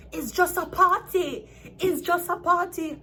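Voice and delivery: high mock-innocent voice, shrugging it off; hammed-up high quote of a careless girl; mocking her excuse. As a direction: imitate her brushing it off, up high. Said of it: "You tell him, say".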